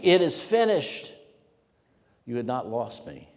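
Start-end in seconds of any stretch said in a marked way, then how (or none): 0.0-1.1 slow, high and loud cry; Jesus crying out from the cross, loud and slow. Acted. Jesus on the cross crying out, slow and loud. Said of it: "crying out with a voice".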